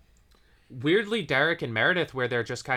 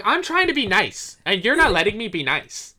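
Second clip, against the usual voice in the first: mock frustrated; 6 semitones higher, 6 dB louder than usual. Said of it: "She's like".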